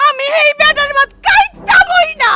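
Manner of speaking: slow, loud, high sobbing shout; crying outburst. Acted. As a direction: wail out the refusal between sobs. Mother refuses husband's food.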